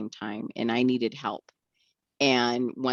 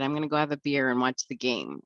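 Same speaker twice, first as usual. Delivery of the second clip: sarcastic. Retold or imitated. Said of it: "being sarcastic".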